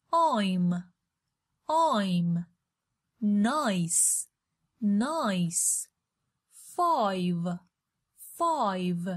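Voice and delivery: "bike", "I'm", "Nice", "Five", "Nine" with a full "eye" glide; teacher's clear long-i in "bike", "I'm", "Nice", "Five", "Nine"; modelled "آی" vowel. Shown as a demonstration. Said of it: "صدای بعدی آی".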